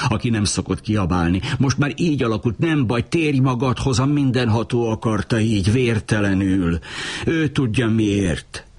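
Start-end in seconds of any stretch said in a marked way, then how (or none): 1.6-8.7 higher, hurried calming words; soothing. A narrator's reading. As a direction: talk him down, gently but fast. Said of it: "Filó csitítgatta".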